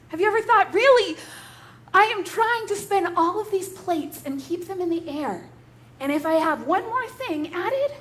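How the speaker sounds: overwhelmed. Acted. Voicing an overwhelmed listener.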